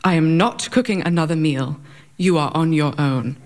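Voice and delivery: put-on a light stern British accent, clipped and firm. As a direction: lightly voice a stern British mother laying down the law. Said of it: "in her stern British accent".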